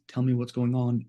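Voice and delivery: warm and calm. Shown as a demonstration. Teacher demonstrating calm listening voice, warm. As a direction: invite them gently to talk. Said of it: "it's warmer, it's calmer".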